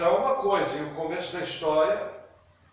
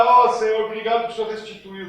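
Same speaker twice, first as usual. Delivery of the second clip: mock prayer; 2 semitones higher, 6 dB louder, faster than usual. Parodies the dynamic's prayer.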